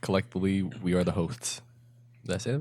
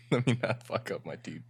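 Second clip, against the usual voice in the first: laughing whisper. Retold or imitated. Inner thought, laughing.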